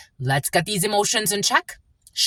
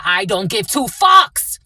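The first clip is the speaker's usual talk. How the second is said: louder, slow, defiant declaration; 3 semitones higher, 6 dB louder, slower than usual. Real, not acted. Defiant to the fake friends, loud. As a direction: land it hard and slow.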